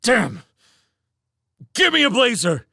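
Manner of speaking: firm high yell; controlled yell. A narrator's reading. Trapped man yelling to his partner for a weapon. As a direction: yell it, but keep control. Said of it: "he yelled in a more controlled tone".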